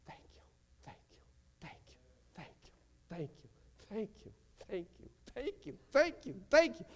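rising from a breath to full-voice gratitude; whisper building to shout. Retold or imitated. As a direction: build the thank yous from a hush to a shout. Imagined praise in heaven.

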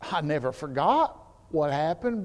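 ordinary talk

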